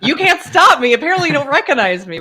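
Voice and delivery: high, loud gleeful taunt; playful defiance. Retold or imitated. Customer taunts the man banning her, playful defiance. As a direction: crow it back at him, retelling.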